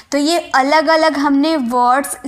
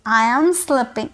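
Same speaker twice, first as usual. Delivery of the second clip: "I am sleeping" said very slowly, each word apart; slow drilled repeat; much slower than usual. Shown as a demonstration. Teacher drills the class on the sentence, slow and clear. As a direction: spell out "I am sleeping" slowly for students. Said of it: "इसकी pronunciation करोगे".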